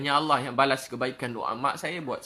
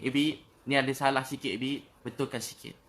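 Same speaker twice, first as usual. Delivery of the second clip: gentle correction. Retold or imitated. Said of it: "dia tegur saya sikit".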